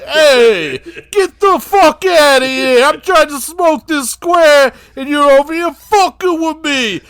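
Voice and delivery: lightly voiced Dice Clay. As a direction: shoo him off like an annoyed comic.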